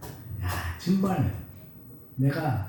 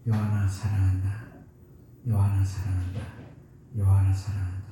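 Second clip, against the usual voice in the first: put-on tender murmur to baby; 9 semitones lower than usual. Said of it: "삼십 분 동안 얘기를 했어요".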